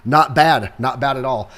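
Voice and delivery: dry sarcastic praise. Acted. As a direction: say it like you mean the opposite. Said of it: "I'm being sarcastic".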